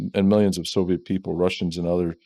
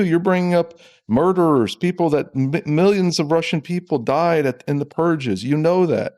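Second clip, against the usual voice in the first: higher-pitched, indignant retelling of a telling-off; retold indignant rebuke; 7 semitones higher than usual. Recounting his rebuke of the Russian officer, higher indignant voice. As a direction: scold him as you recount it, half performed.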